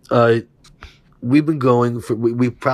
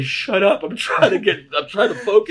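mock snappy shout; 7 semitones higher, 4 dB louder than usual. Snapping at giggling buddy while high.

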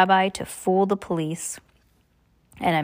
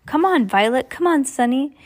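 high, louder urgent call; urgent cry; 7 semitones higher, 4 dB louder than usual. A narrator's reading. Klaus urges his sisters to give chase, high and urgent. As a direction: hurry the sisters along. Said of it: "Klaus cried".

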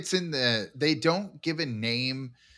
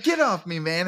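higher, mock-agitated protest; protesting yell, played for laughs; imitated yelling; 4 semitones higher, 3 dB louder than usual. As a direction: act out an indignant yell, pitched up. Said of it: "then he's yelling at the team".

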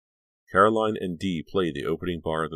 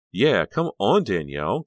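high eager coaxing; urging; 5 semitones higher, 8 dB louder than usual. Acted. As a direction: coax her to come along. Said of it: "Caroline urged".

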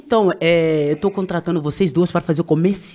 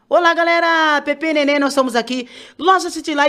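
higher, peppy store-ad hello; ad greeting; 6 semitones higher than usual. Shown as a demonstration. Singer shows the crowd her ad greeting, upbeat. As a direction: sell it like a shop-front promo.

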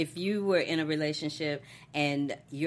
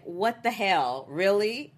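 mock outrage; 4 semitones higher, 5 dB louder, slower than usual. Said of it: "she had this look on her face like".

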